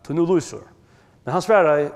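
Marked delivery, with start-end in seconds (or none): 0.0-0.6 acted plea. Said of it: "Maðurin sier".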